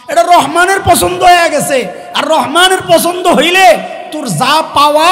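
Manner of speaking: loud, high fervent shout; preaching shout. Real, not acted. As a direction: proclaim it with full force.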